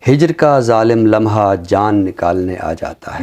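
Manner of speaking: slow, measured ghazal recital with long pauses; poem recitation. Acted. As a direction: savour each line of the couplet, unhurried. (धीमी, ठहरी हुई ग़ज़ल की अदायगी)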